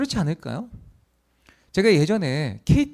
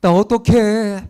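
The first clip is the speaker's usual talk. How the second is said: drawn-out mock lament, swelling louder at the end; acted wailing plea; 5 dB louder, slower than usual. Young passenger phoning mom on the train, acted wailing plea. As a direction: plead helplessly, stretching the last words. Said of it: "막 그러면서 막 하소연을 하는 거예요".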